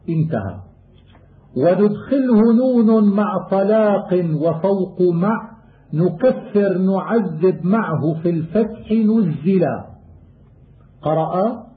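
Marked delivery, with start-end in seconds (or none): 1.6-9.8 poem recitation. Acted. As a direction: recite the rhymed line like a student of qira'at. Chanted verse of the poem.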